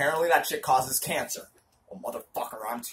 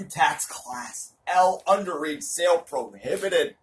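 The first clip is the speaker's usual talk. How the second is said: hammy stage actor. Shown as a demonstration. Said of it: "Dramatic reading".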